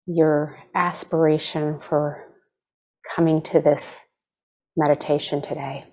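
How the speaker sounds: unhurried meditation guide, long pauses between phrases; guided meditation. Acted. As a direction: gently lead them into stillness, leaving space to breathe.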